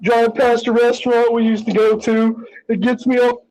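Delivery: high, slow mocking whine; mocking whiny voice. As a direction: imitate her complaining, hammed up. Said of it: "bitching at the end of the video is like".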